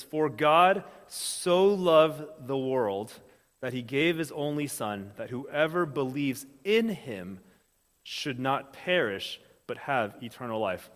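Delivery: slow, measured Bible reading; scripture reading. Acted. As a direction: lay each phrase down slowly, reverently. Reads scripture aloud.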